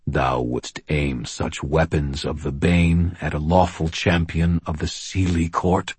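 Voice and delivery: slow, measured archaic giant voice; slow solemn fae giant. Acted. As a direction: weigh every word like a giant. Gruff questions, slowly.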